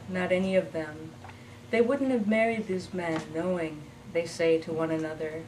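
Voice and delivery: measured narrative verse with line pauses; poem reading. Acted. Poet reading What Then Is Love, measured recital. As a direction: read it as a poem to a live audience. Reads her poem aloud.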